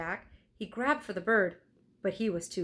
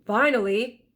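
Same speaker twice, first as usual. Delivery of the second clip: excited; 4 semitones higher, 9 dB louder than usual. Acted. Jack, relieved exclamation.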